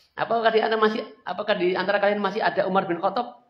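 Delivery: loud high jeering question; shouted taunt. Acted. Abu Sufyan asking after Umar, loud taunt. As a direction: call it across the hills. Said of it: "Lalu dia teriak lagi".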